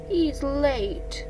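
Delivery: Piglet. Acted. Small friend noting Owl's absence, high voice.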